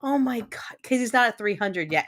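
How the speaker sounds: usual speaking voice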